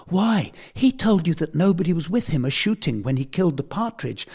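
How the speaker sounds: high schoolboy voice welling toward tears; a child telling tales, close to crying; tearful tattling boy. A narrator's reading. Blifil tells on Tom to his tutor, high and tearful. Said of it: "Here he burst into a flood of tears".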